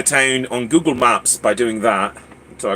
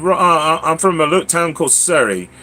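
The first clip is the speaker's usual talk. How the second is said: higher-pitched put-on British accent; 4 semitones higher than usual. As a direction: claim English roots in a British accent. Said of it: "take orders with the British accent".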